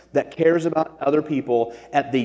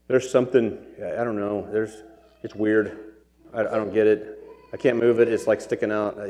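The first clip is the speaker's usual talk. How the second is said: put-on nonchalant kid; 3 semitones lower than usual. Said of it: "this kid is so nonchalant".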